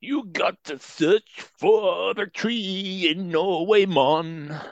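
put-on slow, high Jamaican accent. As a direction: lay on a Jamaican lilt. Mock Jamaican to friend.

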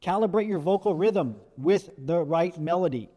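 deliberate, evenly beaten phrase; rhythmic and emphatic; measured rhythm. Shown as a demonstration. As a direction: give each word its own beat. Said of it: "The rhythm like that".

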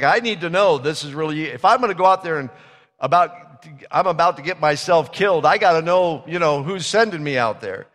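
urgent plea. Retold or imitated. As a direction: beg him as if your life depends on it. Gideon's fearful plea, voiced by preacher.

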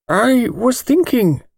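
put-on an elderly lawyer weighing his words slowly; thin precise voice. A narrator's reading. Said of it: "thin, precise little voice".

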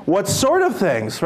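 slow, playing dumb; divine eye roll. Jesus playing dumb with disciples, slow feigned innocence. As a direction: feign not knowing, slowly. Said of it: "the divine eye roll".

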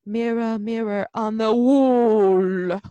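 put-on drawn-out British accent, WALL stretched long and loud; exaggerated British accent with an overblown, lingering vowel; mock queenly British accent. Mocking the film queen's vowels to co-hosts, exaggerated British accent. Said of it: "A vowels, and she'd be like".

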